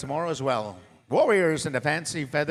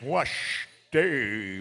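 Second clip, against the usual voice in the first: a singer as Sioux; 3 dB louder than usual. Retold or imitated. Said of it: "If he was Sioux".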